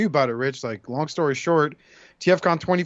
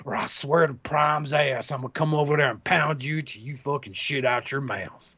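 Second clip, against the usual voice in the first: put-on drunk redneck. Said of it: "make him sound like a drunk redneck".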